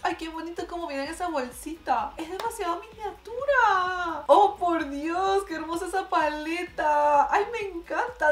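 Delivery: overwhelmed squeal of cuteness; gushing over tiny makeup. Real, not acted. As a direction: melt over how tiny and cute it is. Gushing over mini Bratz makeup.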